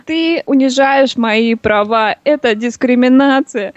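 slow mock American accent in Russian. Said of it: "ну как американцы".

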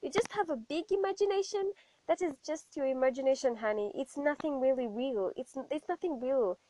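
a hint of patronising church elder; dismissive elders. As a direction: brush the child off sweetly but firmly. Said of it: "And they were like".

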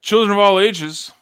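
booming ringmaster announcing the show. Acted. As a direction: call it out loud and high like a circus ringmaster. Circus-style show opening.

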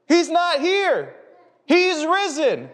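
high, loud and slow, ringing out each word; angel's proclamation. Acted. Angel tells the grieving women, high, loud and slow. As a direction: announce it like a heavenly messenger.

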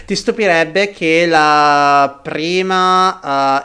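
slow, muffled behind a mask; through a face mask. Real, not acted. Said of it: "con la mascherina fa davvero troppo caldo".

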